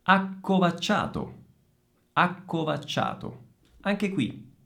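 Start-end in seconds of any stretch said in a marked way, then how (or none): 0.0-3.4 deliberate ACCOVACCIATO with held k and ch; double C. Shown as a demonstration. Teacher models double C, careful ACCOVACCIATO. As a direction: pause briefly on each CC in ACCOVACCIATO. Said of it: "piccola pausa prima delle doppie C".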